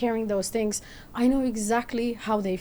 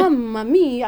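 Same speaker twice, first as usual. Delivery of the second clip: laughing mock exclaim; 6 dB louder than usual. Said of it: "He's like".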